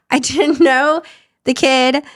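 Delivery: rueful laugh while admitting it; nervous half-laugh over a painful memory. Real, not acted. Laughing while recalling miscarriage.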